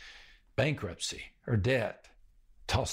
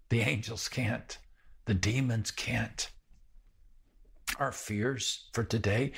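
ordinary talk, nothing marked

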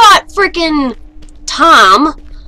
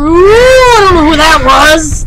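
drawn-out, louder startled cry; spooked; 5 dB louder, slower than usual. Real, not acted. Player reacts to creepy figures in the game, spooked. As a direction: blurt it out, stretching the first word.

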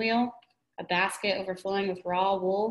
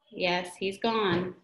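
drawn-out slow reading; much slower than usual. Shown as a demonstration. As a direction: drag out yes, he's gone very slowly. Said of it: "Quit. Sorry".

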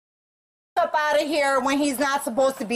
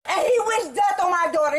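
angry shouting; 2 semitones higher than usual. Real, not acted. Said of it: "shouting is going to help".

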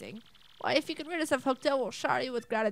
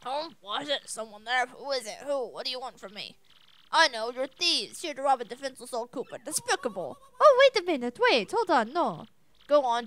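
a hint of a frail old man, startled then pleading; mildly shaky old-man voice, barely off her own; lightly voiced fearful old Koopa. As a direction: play a defenceless old turtle begging thieves to spare him.

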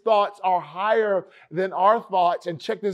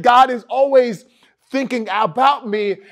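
excited; 4 semitones higher, 5 dB louder than usual. Retold or imitated. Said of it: "He's excited".

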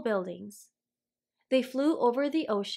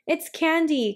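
cried; 5 semitones higher, 3 dB louder than usual. Acted. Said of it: "cried Cherry".

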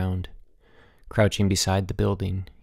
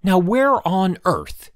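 high, loud and slow, stretched out in wonder; a headmaster bolting upright, astonished; exclaiming; 9 semitones higher, 5 dB louder, much slower than usual. Acted. Headmaster sitting up in bed, exclaiming in surprise. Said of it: "he exclaimed".

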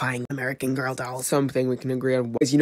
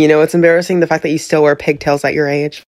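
loud comeback; 2 semitones higher, 8 dB louder than usual. Pretend.

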